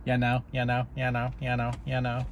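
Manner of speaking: lazy slurred "you know, you know" mimicked; mocking filler talk. Mocking how annoying people talk, slurred filler. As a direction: parody people who pad every line with "you know". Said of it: "annoying to hear people talk anyways like that".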